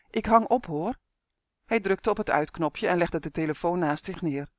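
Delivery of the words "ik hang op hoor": calling. A narrator's reading. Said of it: "riep Justin".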